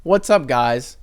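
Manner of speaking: stiff, robotic greeting; robot-like hello. Real, not acted. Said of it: "why I sounded like a robot there".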